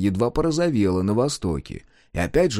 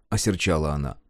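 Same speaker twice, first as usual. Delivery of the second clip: ordinary delivery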